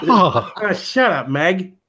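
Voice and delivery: lightly voiced cartoon dad; dismissive cartoon-dad impression; Peter Griffin. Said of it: "throw Peter out there".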